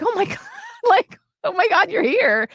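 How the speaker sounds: high, delighted squeal of surprise with a laugh; reliving the thrill of spotting an old friend; excited greeting. Retold or imitated. Meeting her old college roommate at the funeral, thrilled squeal.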